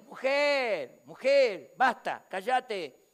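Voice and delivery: loud, firm hushing; stern rebuke. Retold or imitated. Jesus to the insistent woman, stern rebuke. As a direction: shut her down forcefully.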